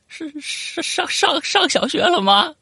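high, slow, stammering with a faraway timbre; stammering high at the snake, scared stiff; nervous stammer. Retold or imitated. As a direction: stutter it out like you're terrified of the snake.

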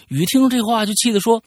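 reading a listener's letter aloud, storyteller style; story narration. Acted. Host reading a listener's letter on air, storytelling narration.

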